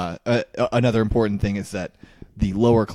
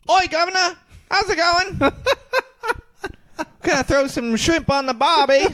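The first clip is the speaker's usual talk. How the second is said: very high, squeaky bad South African accent; hammed-up South African with twisted vowels; mock South African accent; 3 dB louder than usual. Co-host showing off how to fake South African, in a squealed mock accent. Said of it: "talk with a South African accent".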